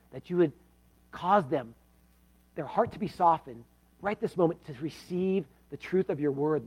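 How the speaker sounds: earnest pastoral prayer, rising and falling; closing prayer. Acted. Preacher praying for the unsaved at the service's end, earnest. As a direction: pray over the congregation.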